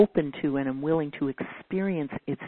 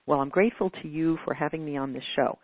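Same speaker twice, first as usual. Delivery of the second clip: flat from the mind. Shown as a demonstration. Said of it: "you can hear my voice kind of goes flat on that".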